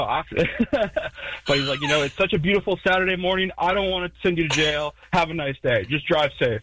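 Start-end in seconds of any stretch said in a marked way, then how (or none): 1.8-6.6 higher, friendly cop voice; imitating the cop. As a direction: let him off kindly.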